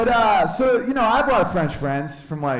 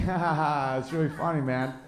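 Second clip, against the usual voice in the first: fake laugh; 5 dB quieter than usual. Unamused reply to the insult joke.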